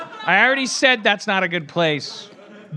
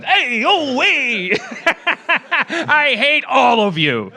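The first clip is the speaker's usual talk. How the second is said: mock yelling townie; 7 semitones higher, 4 dB louder, slower than usual. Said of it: "back there going".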